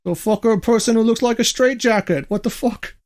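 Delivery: a light mock Irish rocker, swearing at what he sees; lightly voiced rocker, baffled and rude; half-hearted Irish rocker impression, scoffing; imitating a rocker. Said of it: "that's exactly what he would say".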